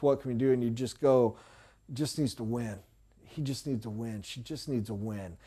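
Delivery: soft, resigned murmur between parents; hushed worried parent. Retold or imitated. Parent quietly worrying that their child just needs a win, hushed. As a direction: say it softly, as if worried about your kid.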